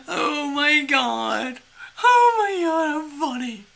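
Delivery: amused at herself, laughing through it. Real, not acted. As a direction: talk while still cracking up. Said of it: "I don't know why I'm laughing".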